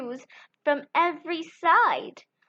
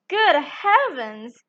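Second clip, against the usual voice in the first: surprised farmer; 4 dB louder, slower than usual. Acted. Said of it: "said the farmer".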